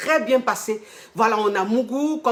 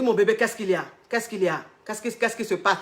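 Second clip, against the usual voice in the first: concerned coaxing; 4 dB quieter than usual. Retold or imitated. Coach worried for client.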